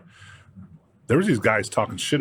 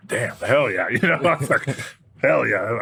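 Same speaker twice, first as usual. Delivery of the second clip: excited; 3 semitones higher, 3 dB louder than usual. Retold or imitated. Rivals shut up after stare down.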